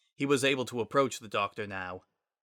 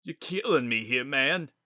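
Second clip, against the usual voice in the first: sobbing; 4 semitones higher, 4 dB louder than usual. A narrator's reading. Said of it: "sobbed it out".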